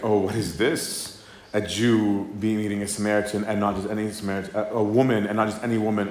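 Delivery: mock-indignant Samaritan woman, lightly done; the woman at the well, needling the stranger, mildly sassy. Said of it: "she's very sassy".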